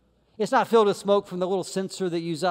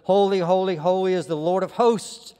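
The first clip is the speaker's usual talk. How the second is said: loud, ringing "Holy, holy, holy"; seraphim calling out; 3 dB louder than usual. Acted. Seraph calling to seraph, loud ringing proclamation. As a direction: proclaim it across the temple.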